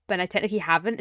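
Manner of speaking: hoarse, croaky voice. Real, not acted. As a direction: speak through a croaky throat. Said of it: "it's so croaky".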